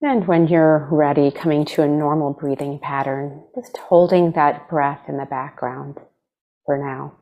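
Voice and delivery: unhurried meditation guide, long pauses between phrases; guided meditation. Acted. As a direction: gently lead them into stillness, leaving space to breathe.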